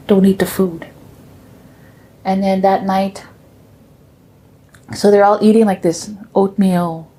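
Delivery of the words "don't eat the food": whispered, secretive warning. Retold or imitated. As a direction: whisper it so nobody else hears.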